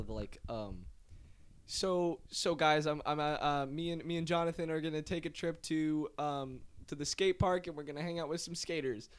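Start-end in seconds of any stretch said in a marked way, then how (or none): 1.7-9.1 imitating TikTok intro. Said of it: "he does do a lot of the".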